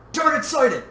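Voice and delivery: loud, high alert call; pilot's shout. A narrator's reading. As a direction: call out the sighting urgently. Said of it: "the pilot shouted".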